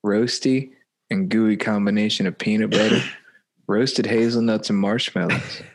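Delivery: lightly voiced, measured actor impression; McConaughey. Taking his turn at the bottle label, faint impression. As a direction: attempt the movie star, losing it near the end. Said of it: "Now I sound like".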